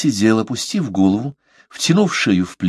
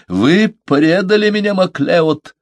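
shout; 10 semitones higher than usual. A narrator's reading. Masson accuses McLeod of betrayal, high angry shout. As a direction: cry out betrayal at him. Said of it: "закричал он".

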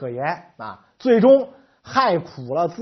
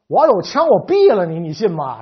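mock furious threat; 9 dB louder than usual. Flustered secretary threatening the Hungarian envoy, mock loud rage. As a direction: blow up in hammed-up exasperation.

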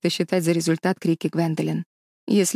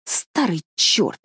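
медленно и мрачно, с нажимом; бросить мрачное оскорбление; much slower than usual. A narrator's reading. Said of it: "мрачно сказала". (мрачно, медленно)

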